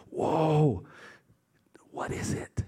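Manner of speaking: hushed, awed whoa, trailing into a whisper; slow wonder, dropping to a breath; acted amazement. Servants seeing the water turn red, hushed amazement.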